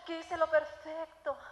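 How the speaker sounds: slow, drawn-out poor-me lament; self-pitying wail, mildly hammed up; acted self-pity. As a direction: reenact complaining to God, stretching the words. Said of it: "y todo era yo".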